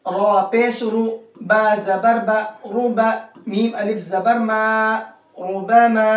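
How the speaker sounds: slow, drawn-out spelling to "रुबमा"; heavy Ra. Shown as a demonstration. Teacher practising with students, heavy Ra recitation. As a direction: hold the long syllables of "रुबमा", R thick. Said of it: "इस रा को मोटा करके पढ़ेंगे".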